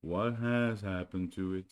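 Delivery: slow gloomy donkey question; lightly voiced glum donkey; gloomy Eeyore. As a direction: ask it as if nothing matters.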